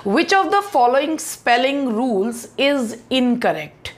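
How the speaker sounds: reading the question out slowly; slow, deliberate read-aloud of the exam question; slow dictation reading. Shown as a demonstration. Teacher reading the exam question to students, slow and deliberate.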